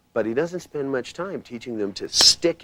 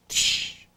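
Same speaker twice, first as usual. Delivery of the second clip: soft exhale "tsh". Retold or imitated. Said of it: "They go".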